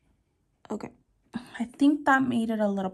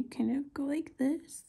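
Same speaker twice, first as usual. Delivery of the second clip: unvoiced whisper to self; 3 semitones higher, 7 dB quieter than usual. Real, not acted. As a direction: whisper while focusing. Concentrating on careful detail work.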